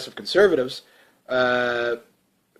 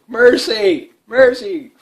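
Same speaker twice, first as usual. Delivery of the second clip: higher, louder hammed-up begging; mock plea for mercy; 7 semitones higher, 7 dB louder, much slower than usual. Albertans begging to be spared, in a hammed-up plea. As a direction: cry out for mercy like a beaten voter.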